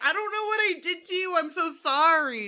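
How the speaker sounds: high pleading mock cry; retold yelling. Owner apologising to her yelling dog, high mock plea. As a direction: protest helplessly, high and stretched at the end. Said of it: "me just yelling at Briggs".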